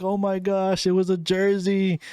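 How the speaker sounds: high thrilled gasp of delight; excited cousin. Retold or imitated. Cousin unwrapping the jersey, high and thrilled. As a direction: pitch up like a fan opening a gift. Cousin voiced opening the gift.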